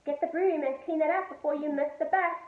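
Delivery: loud, stern telling-off; scolding. A narrator's reading. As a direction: order him to clean up. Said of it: "scolded Mum".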